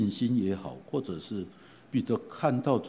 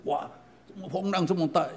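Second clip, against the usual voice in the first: alarmed cry; 9 semitones higher than usual. Retold or imitated. Peter sinking in the waves.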